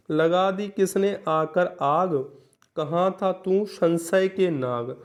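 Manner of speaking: slow, measured verse reading; slow classroom recital of a poem; poem recitation. Shown as a demonstration. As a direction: recite the couplet line by line. Reads a poem example slowly.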